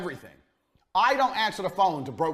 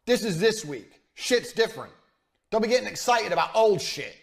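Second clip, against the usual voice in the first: heated rant; 5 semitones higher, 4 dB louder than usual. Real, not acted.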